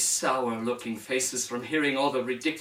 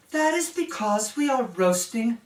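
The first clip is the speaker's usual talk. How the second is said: cold princess voice; 4 semitones higher, slower than usual. Acted. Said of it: "with her cold, hard look".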